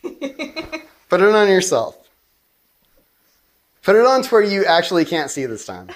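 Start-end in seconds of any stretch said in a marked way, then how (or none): 0.0-2.0 slowly drawn out order; slow insistence. Acted. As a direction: spell it out word by word. Insisting she wears the blindfold.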